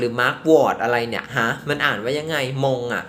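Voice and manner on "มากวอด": "Mugwort" said roughly "mak-wot"; puzzled try at "Mugwort" as "mak-wot"; another pronunciation guess. Shown as a demonstration. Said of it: "หรือ Mugwort อะไรเนี่ย".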